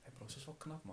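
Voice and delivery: very quiet, hushed, admiring whisper. Retelling what a friend said to him, quoting him very softly. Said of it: "zo heel zachtjes".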